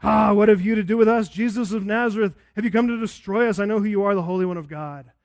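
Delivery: loud, fast demonic outcry; demon crying out. Retold or imitated. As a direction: cry it out like a possessed man interrupting. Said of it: "cried out with a loud voice".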